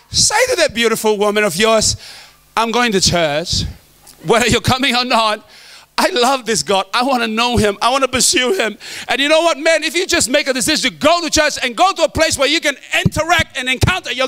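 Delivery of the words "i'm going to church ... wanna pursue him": nice loving way. Pretend. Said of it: "nicely, in a very nice, loving way".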